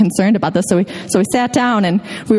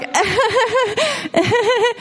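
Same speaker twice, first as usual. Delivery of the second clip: high imitated laughter; 14 semitones higher than usual. Hikers told there are no bears, imitated laugh. Retold group reaction to being told.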